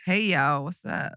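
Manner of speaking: clumsy American greeting; British speaker's attempt at American; American accent. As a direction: try an American accent and miss. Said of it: "I can't do an American accent".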